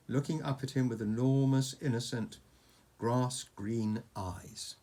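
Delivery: measured bedtime-story narration; story read to a child. A narrator's reading. Reading a dragon story to Oscar, storytelling. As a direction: tell it like an adventure tale, phrase by phrase.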